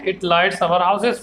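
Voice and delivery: very slow, even English reading for students; a teacher reading a textbook line slowly and clearly; slow flowing read-aloud. Shown as a demonstration. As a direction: read it out slowly so the class can follow. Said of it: "यहाँ थोड़ा पौ-, रुकना है".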